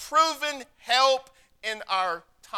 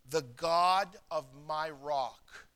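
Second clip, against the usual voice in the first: slow reading; 5 semitones lower, 6 dB quieter, slower than usual. Shown as a demonstration. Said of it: "Now notice what he says".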